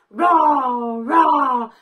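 dinosaur roar. Shown as a demonstration. Teacher leading toddlers in a dinosaur roar. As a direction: roar big for the kids. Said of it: "Let's all roar like the dinosaur".

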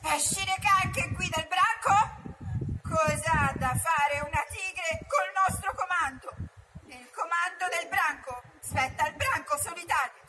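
calling out to council. Acted. Mowgli arringa il consiglio.

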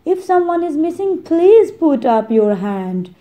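rally the group like a worried leader; a wise man checking on his friends; calling the group. Acted. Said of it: "the wise man continued".

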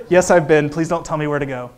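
to a chatty plane seatmate, laughing; laughing through it. Retold or imitated. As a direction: laugh while brushing off the stranger. Acting out the plane chat.

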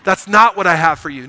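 loud, commanding "No"; firm roar. Acted. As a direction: forbid it with authority. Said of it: "there's a roar that comes from Jesus that says".

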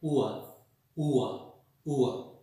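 "ua" said as oo gliding into a, repeated; ua diphthong drill. Shown as a demonstration. Teacher drilling students on "ua", gliding oo to a. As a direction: glide "ua" from oo to a. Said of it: "starts with oo and ends with a".

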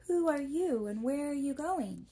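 a bird calling down to strangers; stork. A narrator's reading.

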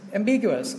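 "Ambiguous" stressed on the second syllable, bi. Shown as a demonstration. Teacher repeats Ambiguous before giving its meaning, stress on the bi syllable. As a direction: bring out BI in "Ambiguous". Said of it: "trọng âm nó rơi vào âm B".

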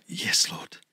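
low, soft, surrendering yes; resigned yes lord. Retold or imitated. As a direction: give in quietly, defeated. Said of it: "eventually I go".

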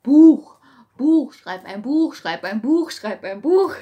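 loud, slow urging voice; insistent inner voice. Retold or imitated. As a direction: chant it like a nagging thought. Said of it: "kommt mir immer so". (laute, drängende innere Stimme)

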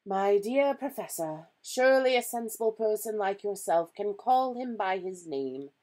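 projected, patient persuasion in character; reasoning Dumbledore. A narrator's reading. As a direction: chide a colleague as the wise wizard.

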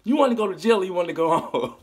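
fast, stern cop threat; Denzel cop line. Retold or imitated. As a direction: hit him with the Denzel move. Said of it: "that Denzel move".

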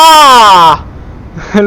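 high, loud startled laugh. Real, not acted. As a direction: burst out laughing in shock. Rough plane landing. (หัวเราะตกใจเสียงดัง)

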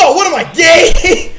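high, loud mock outrage, half laughing; hammed-up scandalized bro; mock-offended bro. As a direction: shout it with laughter in the voice. Mock alarm at "I love you.

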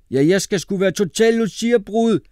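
very high, loud character voice; squealed, insistent boyish claim; excited classmate. A narrator's reading. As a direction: burst in eagerly at full pitch. Mohammed eagerly claims the role.

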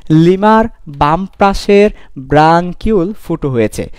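slow careful phrase. Shown as a demonstration. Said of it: "এটা একটু সাবধান উচ্চারণ করতে হবে".

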